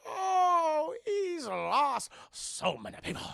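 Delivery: high, slow fake-sob Joker; mock crying Joker. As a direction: wail it like a hammed-up Joker.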